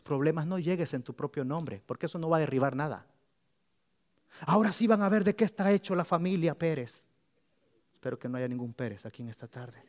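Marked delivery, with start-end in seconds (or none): 4.5-7.1 cocky, self-assured boast; mock proud churchgoer bragging; boastful brag. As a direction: brag like you're untouchable. Mocking proud believers' boast.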